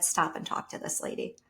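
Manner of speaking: hushed inner voice; my intuition whispering to stop. Retold or imitated. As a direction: breathe it like an inner nudge. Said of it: "Something inside of me said".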